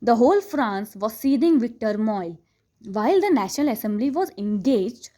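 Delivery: slow, deliberate reading of the English text; textbook read aloud. Acted. Teacher reading the chapter to students, slow and deliberate. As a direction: read each phrase slowly for the class.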